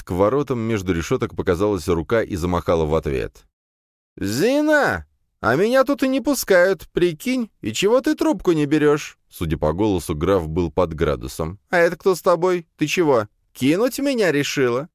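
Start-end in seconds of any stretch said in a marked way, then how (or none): 4.2-9.2 loud, high, tipsy shouting; a drunk nobleman yelling at the gate; drunk count. A narrator's reading. 11.7-14.9 loud, high, tipsy shouting; a drunk nobleman yelling at the gate; drunk count. A narrator's reading.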